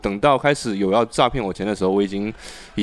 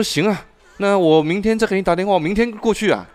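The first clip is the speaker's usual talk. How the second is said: caller; 10 semitones higher, 3 dB louder than usual. Retold or imitated. Caller's voice in retold call.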